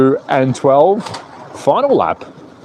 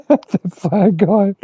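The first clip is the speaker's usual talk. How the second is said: high, very slow and stretched; mock drawn out; 6 semitones higher, much slower than usual. Real, not acted. Streamer greeting the flag-waving chat viewer, teasingly drawn out. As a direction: savour the words teasingly.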